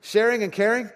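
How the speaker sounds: high, loud disbelief; What? as if it can't be true; stunned repeat of the answer; incredulous. Retold or imitated. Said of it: "it was like".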